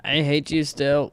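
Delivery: mock dramatic. Repeats hate line dramatically.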